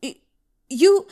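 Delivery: sudden loud, high gasp of a word; shocked stammer. Acted. Broker startled by the official's strike, shocked. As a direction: stumble back startled.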